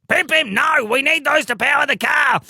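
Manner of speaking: high, loud alarmed cry; urgent shout. A narrator's reading. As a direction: yell to stop him. Teddy Winkle stops Pim Pim.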